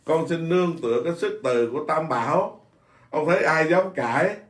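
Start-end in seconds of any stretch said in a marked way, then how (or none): 0.0-2.7 reverent quote. Retold or imitated. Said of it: "lúc nào nói cũng nói".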